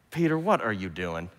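low, quiet voice of God in disbelief; dismayed heavenly Father. Acted. The Father looking down at babbling Peter, low dismay. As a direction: play a weary father softly questioning his child.

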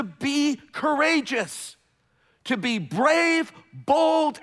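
slow, measured preacher cadence; emphatic preaching. Acted. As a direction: define courage word by word from the pulpit. Preaching definition of courage.

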